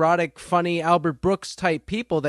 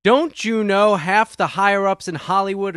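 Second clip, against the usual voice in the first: angry; 5 dB louder, slower than usual. Acted. Rant opens, outraged.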